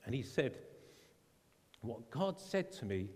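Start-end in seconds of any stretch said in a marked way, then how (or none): 1.8-3.1 lightly imitated German accent; a hint of a German preacher. Missionary recounting what God said, light German accent. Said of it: "in the same German voice".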